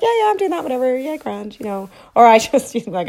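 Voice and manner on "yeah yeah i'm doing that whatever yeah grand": brushing it off. Retold or imitated. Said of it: "you can be like".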